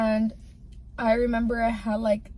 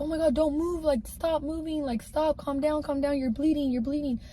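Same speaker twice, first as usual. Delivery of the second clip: higher, urgent telling her to stop moving; panicked pleading; 5 semitones higher than usual. Retold or imitated. Boyfriend begging her to hold still while bleeding, imitated panic. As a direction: imitate his frantic attempt to calm her. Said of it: "And he was like".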